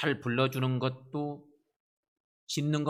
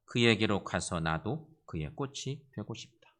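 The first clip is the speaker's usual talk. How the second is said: measured poetry reading, phrase by phrase; poem recitation. Acted. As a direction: recite it deliberately with pauses. (차분한 시 낭송)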